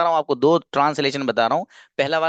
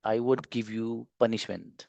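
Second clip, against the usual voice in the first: slow model sentence; 4 semitones lower, 8 dB quieter, much slower than usual. Shown as a demonstration. Teacher models sentence slowly.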